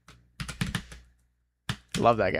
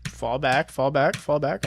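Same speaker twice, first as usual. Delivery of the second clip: quiet; 6 dB quieter than usual. Real, not acted. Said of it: "let me get quiet".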